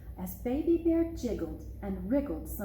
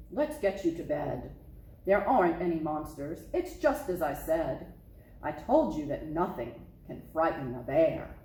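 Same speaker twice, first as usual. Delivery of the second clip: low, assured father bear voice; a dad proving there's nothing to fear; confident papa bear; 5 semitones lower than usual. Acted.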